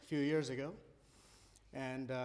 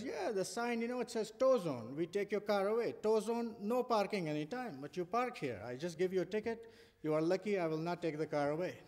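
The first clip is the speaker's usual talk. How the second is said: imitating a police officer's heavy Indian accent, pitched higher; a mock Indian accent from a New York cop; 4 semitones higher than usual. Cop from India explaining tow zone to Liviu, in a heavy Indian accent. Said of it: "So he had this very heavy accent. He talked like this".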